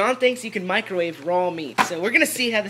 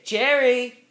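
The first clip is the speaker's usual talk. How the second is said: calling out; 4 semitones higher, 7 dB louder than usual. Real, not acted. Calling the dog.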